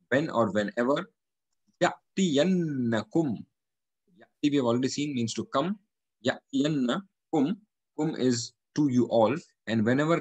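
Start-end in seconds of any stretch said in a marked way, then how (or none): 1.8-3.4 ya'tiyannakum drawn out slowly on the doubled n; held ghunna. Shown as a demonstration. Teacher reciting a word for students, nn held long. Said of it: "We have to do gunna on". 6.2-7.6 Ya'tiyannakum said slowly with a long humming nn; held ghunna. Shown as a demonstration. Teacher repeating the word for students, nn held long. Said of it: "We have to do gunna on".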